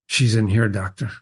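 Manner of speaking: Emmeline answering the doctor, low and controlled; emotionless monotone. Acted. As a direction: answer with nothing showing, low. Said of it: "a monstrous tone, emotionless".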